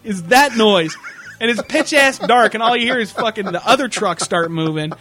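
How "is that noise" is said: groggy alarm. Retold or imitated. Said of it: "And I'm like".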